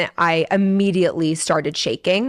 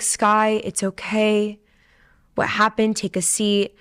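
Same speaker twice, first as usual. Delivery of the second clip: lightly imitated reassuring father; calm dad; 2 semitones higher than usual. Dad hearing his daughter's news, mildly calm. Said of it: "he was just so calm about it".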